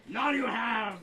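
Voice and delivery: pirate voice. Retold or imitated. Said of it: "You thought it was a pirate voice".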